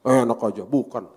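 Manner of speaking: loud, abrupt mock protest; acted startled retort; startled denial. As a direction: deny it as if caught off guard. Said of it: "Kaget dong".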